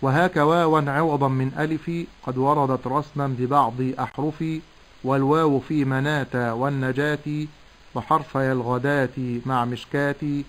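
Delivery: metrical poem recitation; measured didactic verse; recited teaching verse. Shown as a demonstration. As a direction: recite in even rhythm, pausing after each half-line.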